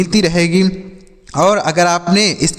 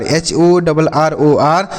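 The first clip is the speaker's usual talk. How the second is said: slow spelling out; much slower than usual. Shown as a demonstration. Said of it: "हरर means होता है".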